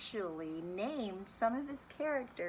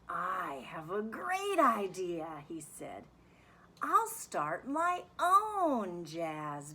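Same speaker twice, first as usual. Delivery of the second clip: lively, sing-song picture book reading; reading to children. A narrator's reading. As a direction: read it like story time for kids. Teacher reads picture book aloud.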